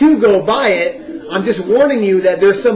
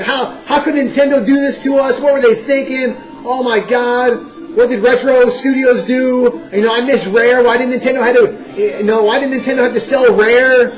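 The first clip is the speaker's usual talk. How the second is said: mock frustrated rant; 2 semitones higher than usual. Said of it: "on the phone with my friends saying".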